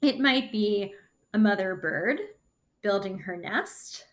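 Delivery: lively storybook read-aloud; reading to children. Acted. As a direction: read the story to the class with bounce. Reads the picture book aloud.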